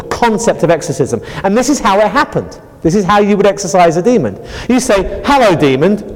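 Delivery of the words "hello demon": polite greeting. Shown as a demonstration. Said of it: "or perhaps not quite as politely as that".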